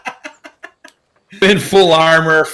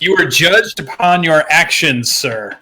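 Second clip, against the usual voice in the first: formal knight's reproof, starting higher; mock-stern rebuke; 4 semitones higher than usual. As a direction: rebuke him with stiff formality.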